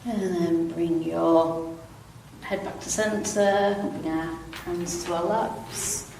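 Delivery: calm, unhurried stretch instructor; easy, even yoga-class delivery with long pauses; guided relaxation. Real, not acted. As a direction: guide them gently through it, pausing between phrases. Leads gentle seated stretches.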